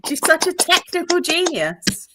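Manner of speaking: mock sob of praise.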